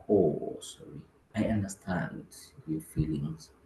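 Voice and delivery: quiet, soothing understanding; soft empathy. Retold or imitated. Leader showing empathy to a scammed prospect, soothing. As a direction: ease the prospect's hurt. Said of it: "I'm like".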